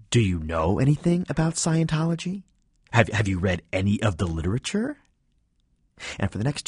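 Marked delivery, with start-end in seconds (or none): 0.1-5.0 falsely cheerful, irritated. Pretend. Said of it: "in a falsely cheerful, irritated voice".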